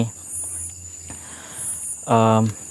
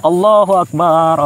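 fearful cry; 6 semitones higher, slower than usual. Pretend. Feeling buried in grave.

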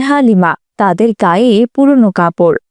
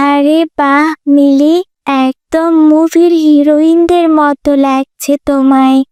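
high, slow, drawn-out admiration; admiring classmate; 5 semitones higher than usual. Acted. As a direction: gush over a friend's new jacket. (মুগ্ধ সহপাঠীর টানা প্রশংসা)

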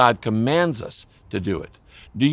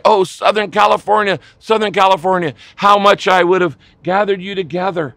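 raised, impassioned plea; passionate prayer cry; 4 semitones higher, 4 dB louder than usual. Retold or imitated. Preacher praying over Southern California, passionate cry. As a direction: call out to a whole region with fervent longing. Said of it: "I have prayed that prayer".

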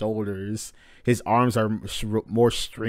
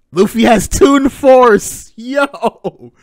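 loud high slow yell of excitement; real excited shout; hype shout; 12 semitones higher, 13 dB louder, much slower than usual. Real, not acted.

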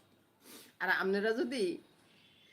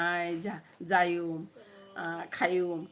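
quick offhand samples of Noakhali dialect, আয় and যাইউম and খাইউম in local form; tossing out Noakhali words like যাইউম casually; much slower than usual. Shown as a demonstration. Vlogger shows viewers her Noakhali dialect words, casual Noakhali speech. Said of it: "মাঝে মধ্যে যে আমি নোয়াখালীর ভাষা বলি".

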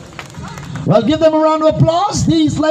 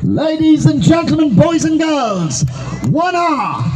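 booming pumped announcer; 3 semitones higher than usual. Real, not acted. Announcing race winners on stage.

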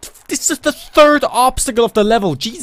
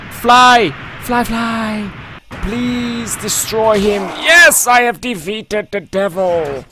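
hammed-up hero; 2 semitones higher, 3 dB louder, much slower than usual. Hammed heroic game commentary.

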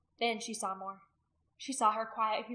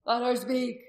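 loud, forceful command; shouted demand; 3 semitones higher, 9 dB louder, slower than usual. A narrator's reading. Warrior demanding the woman be heard, shouting. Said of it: "Rolf shouted".

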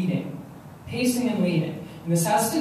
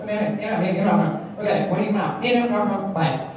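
rapid-fire phone brush-off; lightly imitated brusque phone exchange; New York media people. New York press taking a pitch, lightly imitated quick patter. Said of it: "they'll pick up like".

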